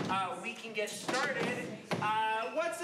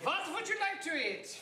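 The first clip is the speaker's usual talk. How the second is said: bad put-on traditional French accent, pitched up; 7 semitones higher than usual. Improvising a scene at an experimental restaurant, asking what they'd like: french accent. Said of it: "it's a traditional French accent".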